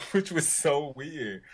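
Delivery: laughs it off in a breathy whisper; a real giggle at the awkwardness; laughing whisper. Real, not acted.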